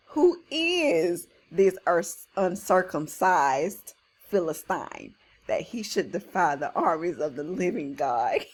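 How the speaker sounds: slow, deliberate reading leaning on "is"; stress on "is". Acted. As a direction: stretch "is" out, measured and emphatic. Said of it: "Look at that emphasis on that is".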